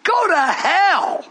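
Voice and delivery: slow, shouted defiance, imitating rebels; mock retort. Preacher imitating his defiant congregation, slow shout. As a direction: throw it back like a rebellious churchgoer.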